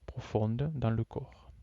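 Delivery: measured yoga nidra instruction with long pauses; guided relaxation. Real, not acted. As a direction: guide them phrase by phrase, leaving long silences. Leads a yoga nidra session.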